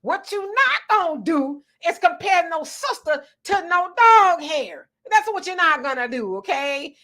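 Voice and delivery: lightly voiced presidential telling-off; Barack Obama. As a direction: set the reporter straight, drawing out the key words. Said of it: "In my Barack Obama, uh, voice".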